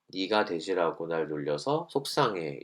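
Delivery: slow, even, soft-spoken; calm I-message. Shown as a demonstration. Teacher models the calm way, softly even. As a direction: say it plainly and calmly. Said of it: "말투를 담담하게".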